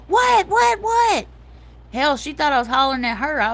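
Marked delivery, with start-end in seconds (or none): 0.1-1.3 very high, loud repeated yelps; startled imitation. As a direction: imitate a startled friend yelping down the phone. Friend startled by screaming on phone.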